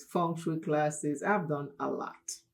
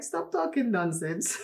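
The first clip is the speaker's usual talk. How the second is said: mock scolding mother, pitched higher; playful motherly telling-off, breaking into a laugh; imitating mom's dismissal; 4 semitones higher than usual. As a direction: wave off the silly idea, amused. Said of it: "She's like".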